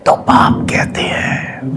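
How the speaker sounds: slow whispered divine voice. Retold or imitated. Narrator imitates God speaking in class, slow whisper. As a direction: breathe the words out slowly, full of awe.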